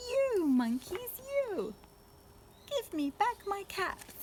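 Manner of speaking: angry peddler yells at monkeys; angry demand. Acted. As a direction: shake both hands and yell. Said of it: "This made the peddler angry".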